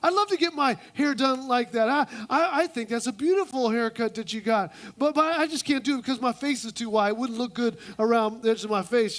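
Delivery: mock-girly flattery; overdone sweet friend; gushing woman. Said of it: "woman number one".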